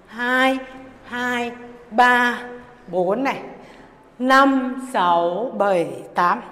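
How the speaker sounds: punchy dance-class beat count. Acted. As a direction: call the beats out to the music.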